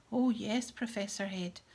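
loud, eager burst of glee; gleeful bombshell. Acted. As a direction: relish the secret you're about to drop. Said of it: "air of one cradling a large bombshell".

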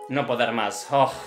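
mock exhaustion with a sigh; imitating tired dancer. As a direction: lightly imitate a worn-out ballerina. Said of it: "media cansada. Mirar cara de ella". (imitando a una bailarina cansada)

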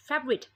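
"favorite" as fev-rit; two syllables. Shown as a demonstration. Teacher repeats the model, two-syllable "favorite". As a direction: say "favorite" with no middle vowel. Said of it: "สองพยางค์พอนะคะ".

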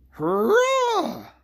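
high, loud cheering roar; monster roar. A narrator's reading. The monster calling out in the wood, loud roar. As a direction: let the monster bellow its joy. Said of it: "roared the monster".

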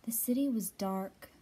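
ordinary delivery

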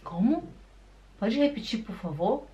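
softly puzzled request to repeat; puzzled listener. Acted. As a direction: play someone who didn't catch it. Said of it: "a pessoa fica assim".

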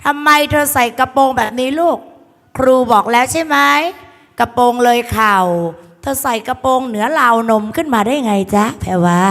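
mock telling-off of a pupil; lightly voiced schoolteacher reprimand; acted teacher scolding. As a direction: play a teacher taking a student to task. Acting teacher scolding skirt length.

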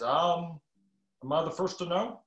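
a hint of the president's halting "um"; mild Obama impression. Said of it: "he's doing his best Obama impression".

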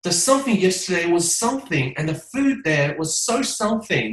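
mock expressive frame; expressive stress pattern. Shown as a demonstration. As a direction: stress carried without real words. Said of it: "你也得说".

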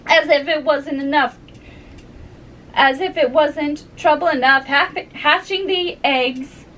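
mildly exasperated pigeon; harried pigeon. Acted. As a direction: grumble like an overworked mother bird. Voices the complaining pigeon.

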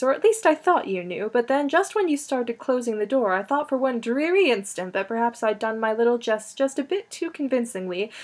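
a light touch of haughty society airs; lightly affected fancy-lady chatter; fanciest tone. Acted. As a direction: play the grand lady, mildly. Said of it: "said in her fanciest tone".

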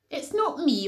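pig's mild piggy denial; oinked. Acted. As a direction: give the pig a light oinky protest. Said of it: "oinked the pig".

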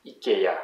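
"ikea" as "ee-kay-AH", final syllable stressed; French pronunciation. Shown as a demonstration. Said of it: "in French, it's ikea".

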